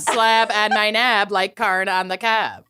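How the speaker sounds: hammed-up Minnesota accent; Minnesotan accent. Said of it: "worst Minnesotan accents".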